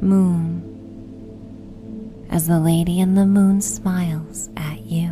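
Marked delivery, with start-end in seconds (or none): none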